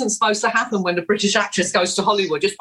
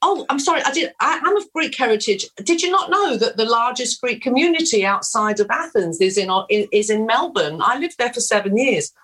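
hammed-up Australian accent, much higher; fake Australian accent; 5 semitones higher than usual. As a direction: bluff through it in a high, put-on Australian accent. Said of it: "is that an authentic Australian accent?".

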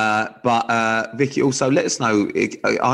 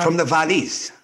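higher, lilting Welsh accent; 6 semitones higher than usual. Shown as a demonstration. Showing co-host how to say it, Welsh accent. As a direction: put on a sing-song Welsh accent. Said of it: "trying to do Welsh".

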